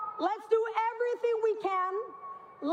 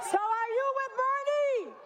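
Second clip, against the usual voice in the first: rousing the crowd; rally shout; 3 semitones higher than usual. Real, not acted.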